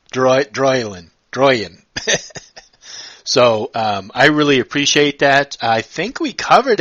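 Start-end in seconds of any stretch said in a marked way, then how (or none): 0.1-1.8 Droylin, Droyan with a plain, unrolled English R; failed rolled R. Real, not acted. Host trying the guest's name, unrolled R in Droyan. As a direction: attempt Droylin, then Droyan, without managing to roll the R. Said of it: "I just can't roll my R's".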